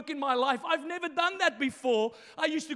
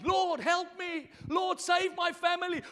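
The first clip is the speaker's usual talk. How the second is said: pleading prayer; 4 semitones higher, slower than usual. Retold or imitated. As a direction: cry out to the Lord. Retelling his loud prayers.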